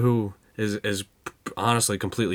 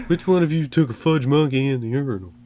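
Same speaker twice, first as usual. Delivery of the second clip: mock angry demand; 6 semitones higher, 5 dB louder than usual. Joke quote, pretend angry teacher.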